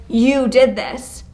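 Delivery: slow, pointed blame; accusatory tone. Shown as a demonstration. Teacher contrasting tones for the class, accusing. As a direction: press on the blame. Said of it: "Tone's a big thing".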